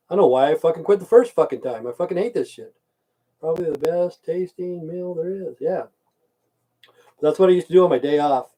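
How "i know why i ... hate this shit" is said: fed-up thought. Retold or imitated. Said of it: "I thought".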